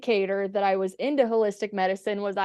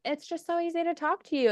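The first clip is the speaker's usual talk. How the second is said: imitated confider; 8 semitones higher, 5 dB quieter, faster than usual. Imitates people confiding in her.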